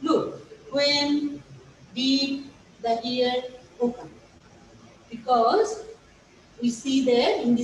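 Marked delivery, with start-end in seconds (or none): 0.7-4.1 slow, deliberate wrong example woke up; teacher showing the wrong verb form woke; wrong form shown. Shown as a demonstration. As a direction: read out the mistake slowly as a warning. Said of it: "we shall not write woke up".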